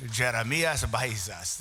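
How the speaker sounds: "Jeremias Baizas" said slowly with a tapped Spanish r; savored name pronunciation. Real, not acted. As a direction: relish each syllable of "Jeremias Baizas", tapping the r. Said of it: "I like saying your name".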